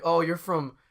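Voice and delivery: hammed-up Midwest heckler accent; Chicago accent. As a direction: imitate a Chicago-Wisconsin local, loudly. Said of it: "Someone could be there soon, like".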